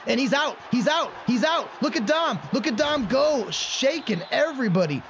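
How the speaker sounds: rising, excited shout of he's out; excited play call. Real, not acted. Calling his back's breakaway run, excited shouts. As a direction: cheer the runner breaking free. Running back breaks loose.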